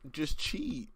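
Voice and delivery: loud, exasperated call at screen; shouting. Real, not acted. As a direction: yell it out in disbelief. Yelling advice at the screen.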